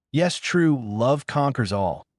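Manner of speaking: high squeal, then dreamy and slow; gushing fangirl. Acted. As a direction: swoon over the word love. Pink-haired banshee cuts in.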